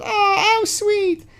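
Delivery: very high, slow, syrupy sarcastic coo; sarcastic sweetness. Real, not acted. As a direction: drip fake sweetness over it. Sarcastic comment on the message.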